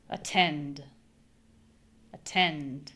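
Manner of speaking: "attend" with a schwa start and a strong tend; da-DA shape; stress on second syllable. Shown as a demonstration. Teacher modelling for repetition. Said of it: "repeat it like me".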